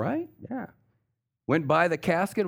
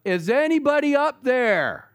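high, loud cry for help from a cliff; hanging man shouting up the canyon; desperate yell; 13 semitones higher, 6 dB louder than usual. Retold or imitated. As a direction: call upward, panicked. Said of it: "And he yells up".

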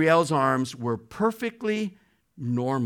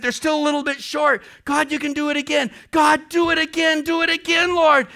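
much higher, louder, faster amazed pleading; ecstatic prayer; 11 semitones higher, 3 dB louder than usual. Retold or imitated. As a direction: marvel and demand more from God. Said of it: "and she said".

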